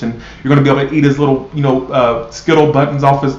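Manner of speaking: mock a sugary, lovey-dovey tarot message; mock fairy-tale message. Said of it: "when they're all fairy tales and unicorns".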